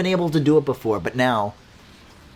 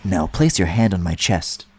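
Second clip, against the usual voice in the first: a much lower, lightly voiced Jin line; imitating Jin; 8 semitones lower than usual. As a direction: drop low and say it like Jin. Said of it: "and Jin said".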